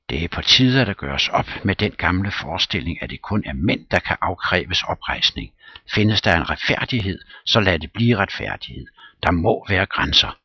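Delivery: loud declaiming; Smirnov orating, indignant. Acted. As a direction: proclaim it like a principled stand. Smirnov's speech on justice.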